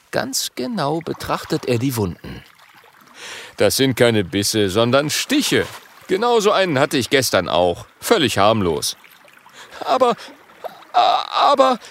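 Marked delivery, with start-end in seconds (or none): 3.6-9.0 louder, steady doctor's voice; lightly voiced doctor dragon. Medizindrache Marcus Medicus speaks. 9.9-11.8 high, loud stammer; spiny dragon stammering "Aber, a-, aber"; stuttering. Acted. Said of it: "stottert der Stacheldrache".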